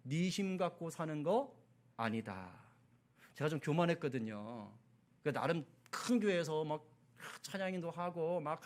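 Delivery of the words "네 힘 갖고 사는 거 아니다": God's correction. Retold or imitated. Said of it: "그때 제가 깨달았어요".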